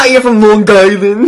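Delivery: mock Long Island accent as locals do it; thick Long Island accent. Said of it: "that thick Long Island accent".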